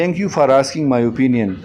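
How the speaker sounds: slow, clear teaching delivery of the phrase; a teacher modelling an English phrase word by word; slow model phrase. Shown as a demonstration. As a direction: spell it out slowly for learners. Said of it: "اس کی شکریہ ادا کرتے ہیں".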